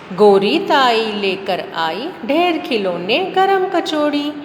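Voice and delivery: teacher reciting a nursery rhyme; children's rhyme. Acted. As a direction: chant the rhyme with a bouncing rhythm.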